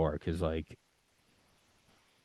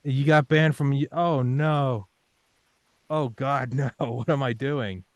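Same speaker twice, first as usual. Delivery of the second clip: higher and louder frantic mock panic; mock terror; 6 semitones higher, 6 dB louder than usual. Applicant panicking over his med school gamble, higher, louder hammed-up panic. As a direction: spiral into hammed-up dread.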